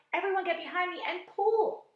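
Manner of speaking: rally everyone to pull; shouting orders. A narrator's reading. Grasshopper rallying the crew to pull, loud shout. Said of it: "shouted the old green grasshopper".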